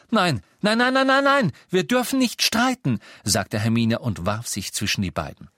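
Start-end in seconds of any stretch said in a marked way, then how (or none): 0.1-3.0 very high, loud, panicked pleading; frantic, stop the fight. A narrator's reading. Hermine throws herself between them. (Hermine wirft sich panisch zwischen die beiden)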